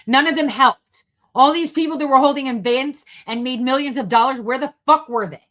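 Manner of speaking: loud, high furious tirade; angry rant. Real, not acted. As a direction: rail against them loudly. Ranting at former allies.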